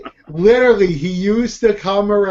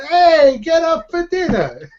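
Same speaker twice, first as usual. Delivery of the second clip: high-pitched holler from a window; imitated parent calling out; 11 semitones higher than usual. Mimicking Brooklyn parents summoning kids from the window, high calling-out. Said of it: "stuck their head out".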